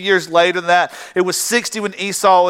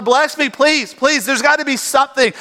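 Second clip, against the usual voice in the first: higher-pitched, mildly acted plea; pleading; 6 semitones higher than usual. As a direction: imitate a son begging his father. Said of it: "He's pleading with his father".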